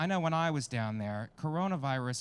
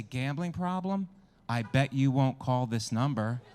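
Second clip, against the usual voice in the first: slow, teasing Gambling problem, then a louder I bet you won't; taunting dare; 4 dB louder than usual. Shown as a demonstration. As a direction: goad them into taking the bet. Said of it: "It should at least say".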